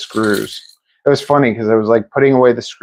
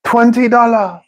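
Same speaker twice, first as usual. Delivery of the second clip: high mock Asian accent; 10 semitones higher than usual. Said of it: "You made me laugh so hard when you said twenty dollars".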